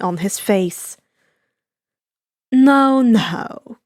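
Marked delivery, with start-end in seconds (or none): 2.5-3.8 firm interruption. Acted. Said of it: "Compress said, clapping his hands".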